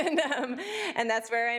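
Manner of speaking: talking through a laugh. Real, not acted. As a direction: still laughing a little. Laughs while recalling meeting.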